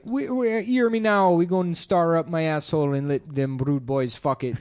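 a jokey Jamaican patois impression; mock Jamaican patois. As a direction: ham up a Jamaican patois accent. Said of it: "that's a patois".

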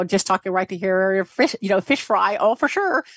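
imitating a Midwestern girl; Midwestern accent. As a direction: chat in a flat-vowelled Midwestern accent. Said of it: "in this character for".

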